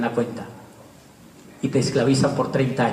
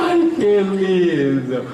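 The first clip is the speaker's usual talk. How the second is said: enternecido riendo; 4 semitones higher, much slower than usual. Real, not acted. Se enternece riéndose.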